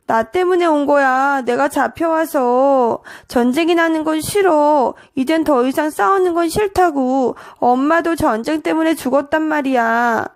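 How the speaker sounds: a touch of upset, on the verge of crying; close to tears. Acted. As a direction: protest like a child about to cry. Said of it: "해우는 울상이 되어 말했어".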